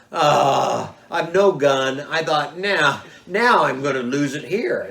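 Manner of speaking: retold panic. Panicked thought facing the bear.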